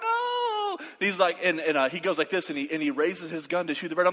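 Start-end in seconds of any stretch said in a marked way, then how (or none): 0.0-0.8 very high, stretched mock cry; hammed-up refusal yell. Boy in the tree refusing his cousin, high-pitched mock cry. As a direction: wail the refusal in exaggerated protest.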